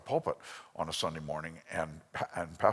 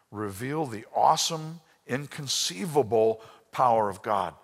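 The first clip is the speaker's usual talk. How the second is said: rising emphasis; 3 semitones higher, 5 dB louder than usual. Real, not acted. Preaching climax.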